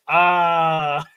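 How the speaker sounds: long, loud, hammed-up "ah"; exaggerated sigh of relish; mock satisfied sigh. Mock savouring sniff after the fart.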